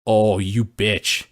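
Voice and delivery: drawn-out accusing growl; slowly, like you caught them; slow suspicious accusation. Real, not acted. Suspicious of Monika.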